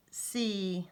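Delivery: "si" said as "see", on its own; long E syllable. Shown as a demonstration. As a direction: sound out "si" with a long E. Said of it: "it's gonna say the long E".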